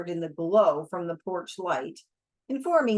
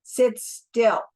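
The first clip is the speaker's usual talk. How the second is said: a sharp, louder command; gunman's order; 3 semitones higher, 6 dB louder than usual. Acted. Holdup man ordering the narrator to sit, louder. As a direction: bark it as a threat.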